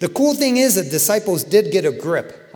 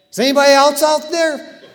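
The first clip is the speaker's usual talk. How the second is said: louder, higher, with laughter breaking in; laughing through the punchline; 9 semitones higher, 8 dB louder than usual. Retold or imitated. Preacher telling the cliff joke to the congregation, laughing punchline. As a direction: deliver the joke line cracking up.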